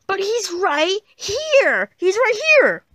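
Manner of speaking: high, drawn-out wail rising to a shout; shrieky, frantic protest; desperate insistence. Acted. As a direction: plead loudly to be believed. Insists against a doubting friend.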